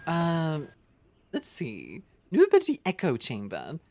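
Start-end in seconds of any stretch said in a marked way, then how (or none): 2.3-3.8 squealing at a new unlock; excited. Real, not acted. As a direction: announce it with a jolt of delight. Reading game popup excitedly.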